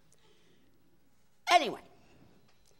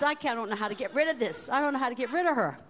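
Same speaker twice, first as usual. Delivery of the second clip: laughing flustered; 4 semitones higher, 3 dB louder, much faster than usual. Retold or imitated. Waitress laughing, flustered on phone.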